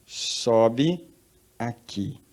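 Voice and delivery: lightly voiced heavenly trumpet call, drawn out; a slow, stretched summons. The voice from heaven calling John up, lightly trumpeting. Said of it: "com uma voz de trombeta falando comigo".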